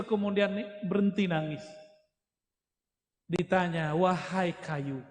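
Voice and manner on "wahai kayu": slow, lower, mildly soothing call; lightly acted comforting address, drawn out. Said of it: "dielus seperti anak kecil". (sapaan menenangkan, rendah dan perlahan)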